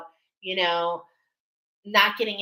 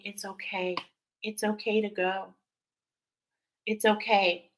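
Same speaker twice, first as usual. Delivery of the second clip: gentle reassurance; 4 dB quieter than usual. Retold or imitated. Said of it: "talk to my patients and say".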